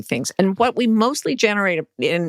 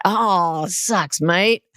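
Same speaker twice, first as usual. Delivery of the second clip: mock Australian; much slower than usual. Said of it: "It's just like".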